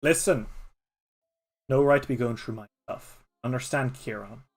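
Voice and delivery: mild snarl. Acted. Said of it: "Z snarls and says".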